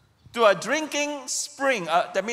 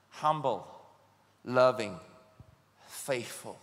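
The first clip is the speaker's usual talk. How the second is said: low, fading litany of virtues; preacher closing on a hushed list; soft, low list; 11 semitones lower, 7 dB quieter than usual. Shown as a demonstration. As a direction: let each word drop away quietly. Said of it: "listing virtues softly".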